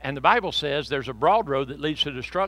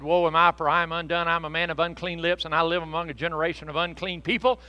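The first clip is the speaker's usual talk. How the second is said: louder, hammed-up despair; Elijah lamenting; 3 semitones higher, 9 dB louder than usual. Elijah despairing over unclean lips, loud mock lament. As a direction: cry out your unworthiness, mock dramatic. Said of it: "Elijah said".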